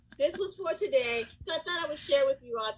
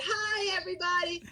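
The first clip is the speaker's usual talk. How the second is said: cheery class greeting; 5 semitones higher than usual. Shown as a demonstration. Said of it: "I would have said".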